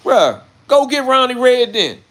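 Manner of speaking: high, loud, stretched-out dare; shouted challenge. Acted. Streamer daring commenters to fetch Ronnie Red, shouted challenge. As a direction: holler the challenge slowly. Acted challenge to the tale-bearers.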